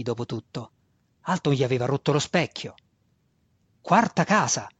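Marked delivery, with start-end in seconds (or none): 3.8-4.7 higher, forceful correction; vehement. A narrator's reading. Trapped student asserting his house's rank, vehemently. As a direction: insist on it with impetus. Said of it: "disse Alton con impeto".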